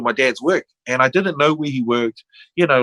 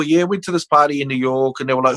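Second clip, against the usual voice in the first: ordinary delivery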